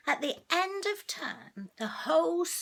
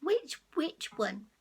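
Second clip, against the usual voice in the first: lightly voiced cat. Shown as a demonstration. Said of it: "You have a go at saying it".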